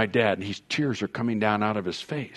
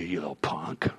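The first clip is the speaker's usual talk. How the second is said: mild menace; 8 semitones lower, 11 dB quieter than usual. Retold or imitated. Bailiff threatening the son.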